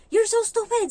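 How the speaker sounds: high, loud furious screaming; furious yell. Retold or imitated. The employer screaming insults at the maid. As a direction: explode at the maid like a raging boss.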